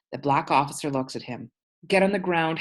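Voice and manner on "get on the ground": cop's command. Acted. Cop orders father down.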